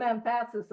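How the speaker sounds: "emphasis" stressed on its middle syllable; misplaced stress. Shown as a demonstration. Speaker joking about wording, "emphasis" stressed wrongly on the second syllable. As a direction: say "emphasis" as em-FA-sis. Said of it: "emphasis on the wrong syllable".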